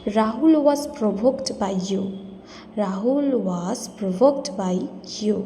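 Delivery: slow and clear; slow model sentence. Shown as a demonstration. Teacher modelling the sentence slowly. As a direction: say it slowly for learners. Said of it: "তোমার উস্কানোর কারণে রাহুল রেগে গেছে".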